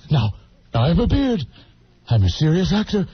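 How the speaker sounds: lowering into mock gravity; serious-actor Robin Williams. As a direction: play a self-important dramatic actor lightly. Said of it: "Robin Williams in the serious role".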